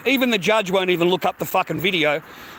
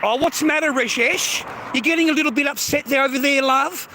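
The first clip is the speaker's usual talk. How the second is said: higher, quicker, sing-song mockery; mocking taunt; 3 semitones higher than usual. Real, not acted. Taunting upset viewer Rajesh in mock sympathy.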